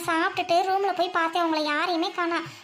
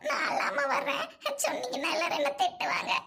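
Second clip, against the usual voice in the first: tearful voice; 5 semitones higher than usual. Acted. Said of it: "இந்த குரலை மாத்துடி".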